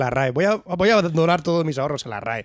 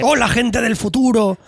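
saludo en broma; 4 semitones higher than usual. Pretend. Saludo en broma a oyentes futuros.

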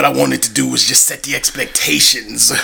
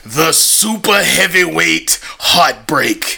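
ring announcer. Acted. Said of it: "fire introduction".

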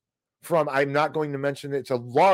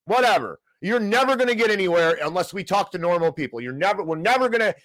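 angry rant; 4 semitones higher than usual. Real, not acted. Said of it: "End of that rant".

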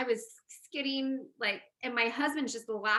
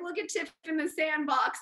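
higher-pitched mocking imitation; retold teasing; 5 semitones higher than usual. Husband mocking wife packing down snow, teasing imitation. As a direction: poke fun like a teasing husband. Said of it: "he's making fun of me".

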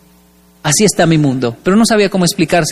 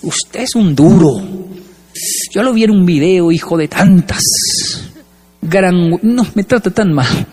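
put-on drunk neighbor. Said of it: "me dice".

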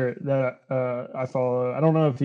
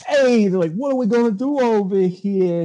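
mock mob guys; 7 semitones higher, 4 dB louder than usual. Acting out cartoon mob guys.

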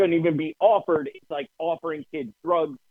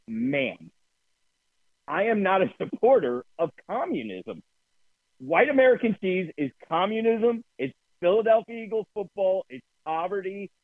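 pitched-up, hammed-up outrage at the deli counter; mock indignant rant; 6 semitones higher than usual. To the deli lady, ranting about white American cheese, mock outraged. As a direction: lecture her like a pompous crusader. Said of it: "I go through this whole rant".

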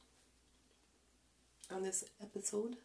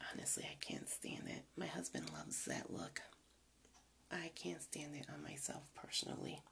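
hushed confiding aside; whispering; 6 dB quieter than usual. Real, not acted. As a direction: whisper it like a little secret. Confiding aside about husband's taste.

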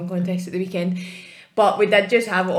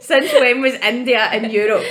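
incredulous; 5 semitones higher, 5 dB louder than usual. Retold or imitated. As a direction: ask in disbelief. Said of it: "I was like".

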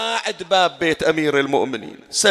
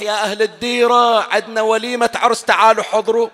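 loud, raised announcement to the village; loudspeaker call; 7 semitones higher, 8 dB louder than usual. Retold or imitated. A villager inviting all to a wedding, loud announcement. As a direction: call everyone to the wedding over the speaker. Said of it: "بطل السماعة وصاح".

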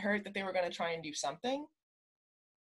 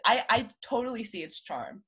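lisping around a retainer; wearing a retainer; 3 semitones higher than usual. Real, not acted. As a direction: talk with a retainer in your mouth. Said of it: "I have my retainer in".

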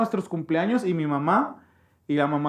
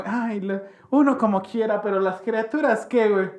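doña Márgara mix; 4 semitones higher than usual. Retold or imitated. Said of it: "una combinación entre doña Márgara y doña Lucha".

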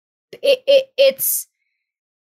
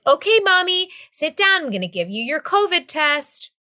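lightly voiced child, higher pitched at first; little kid playing doctor; 4 semitones higher than usual. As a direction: imitate a small son giving doctor's orders. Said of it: "even Jack was playing with his doctor's kit".

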